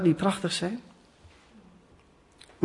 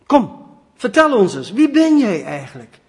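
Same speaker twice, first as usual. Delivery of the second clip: urgent sailors; 4 semitones higher, 7 dB louder than usual. Acted.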